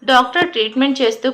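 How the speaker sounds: usual speaking voice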